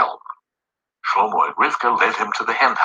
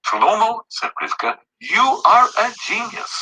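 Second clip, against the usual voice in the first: higher, admiring wife voice; lightly voiced admiring wife; 13 semitones higher than usual. A narrator's reading. Read to children: wife praises her husband, lightly admiring. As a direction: gush a little over his idea.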